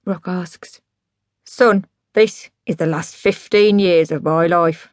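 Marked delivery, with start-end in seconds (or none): 1.4-4.9 slow, weighty dad voice; solemn drunk dad. Acted. Dad handing over his life's work, solemn. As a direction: deliver it as a momentous announcement.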